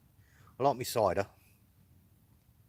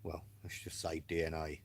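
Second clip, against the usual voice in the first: whisper; 5 semitones lower, 10 dB quieter than usual. Real, not acted. Secretive aside.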